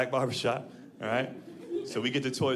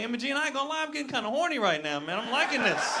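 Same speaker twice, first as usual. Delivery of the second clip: higher, playful mock-seductive voice; hammed-up flirting; 8 semitones higher than usual. Customer flirting with the waitress Emma Jean, hammed-up. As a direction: overplay the come-on for laughs. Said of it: "It's like".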